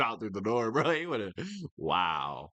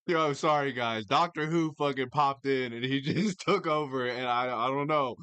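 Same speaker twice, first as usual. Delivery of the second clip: lightly voiced sheepish guy; mock apology impression; 2 semitones higher than usual. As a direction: play the man sheepishly blaming a possession. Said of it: "And then he says".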